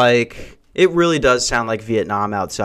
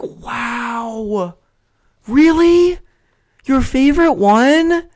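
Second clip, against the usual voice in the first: high, slow, sing-song mock amazement; mock praise for a kid; 12 semitones higher, 3 dB louder, much slower than usual. Friends humoring his podcast news, high mock amazement. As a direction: humor him like a child. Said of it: "everybody has to be like".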